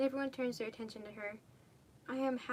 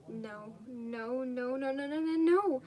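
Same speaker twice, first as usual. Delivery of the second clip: building wail; 2 semitones higher, 7 dB louder, much slower than usual. Acted. Girl screaming at a horrifying video, building loud.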